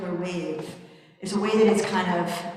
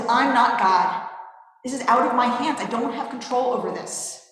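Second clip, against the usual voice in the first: higher and louder, exasperated protest; angry response; 5 semitones higher, 4 dB louder than usual. Acted. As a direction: throw up your hands and snap back in anger. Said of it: "his response is".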